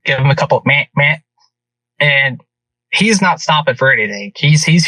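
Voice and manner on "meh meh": short bleated grunt to stop a deer; quick vocal deer call; imitated deer grunt. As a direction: mimic a buck grunt. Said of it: "I start to kinda grunt at him".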